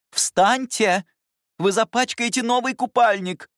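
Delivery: high, loud nanny alarm; alarmed scolding. Acted. Governess scolding the girl lying on the grass, high and loud. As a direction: stop her before the leotard gets dirty.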